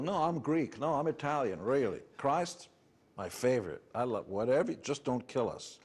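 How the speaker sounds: a hint of an anxious outsider blending in; assimilating immigrant pleading. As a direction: play a nervous immigrant pretending to be Greek. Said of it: "method of survival".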